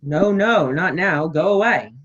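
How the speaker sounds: no no, go away, loud; loud shooing. Acted. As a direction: wave her away with volume.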